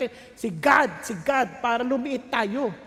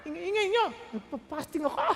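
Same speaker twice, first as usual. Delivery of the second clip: high, loud mock scolding of noisy people; mock grumpy scolding; irritable scolding; 6 semitones higher, 4 dB louder than usual. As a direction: snap at everyone like a hungry faster.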